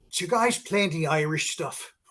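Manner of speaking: put-on very thick, laid-on Irish accent. Retelling a woman's request after a gig set: imitating a thick irish accent. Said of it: "a woman with a very thick Irish accent".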